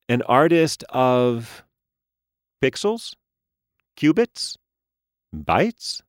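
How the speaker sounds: high, bright doll voice; a chirpy toy speaking through a speaker; talking doll. A narrator's reading. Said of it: "The face spoke back from the small speaker".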